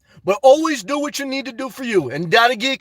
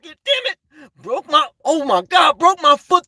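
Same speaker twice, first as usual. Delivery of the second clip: high startled outburst; sudden exclamation; 4 semitones higher than usual. Real, not acted. Streamer hears viewer broke his foot, startled outburst. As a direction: blurt it out in shock.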